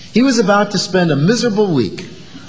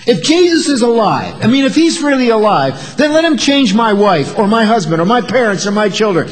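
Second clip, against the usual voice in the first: demanding doubter; 3 semitones higher than usual. Retold or imitated. A doubter bargaining with God, insistent and higher. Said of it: "we see it today".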